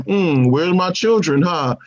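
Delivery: put-on Wanda's accent. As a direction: draw the question out in a mock Sokovian accent. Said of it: "I like how that accent, like, comes and goes".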